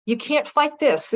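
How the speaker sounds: partly whispered gentle consoling; retold hushed comfort. Doctor patting her hand, consoling.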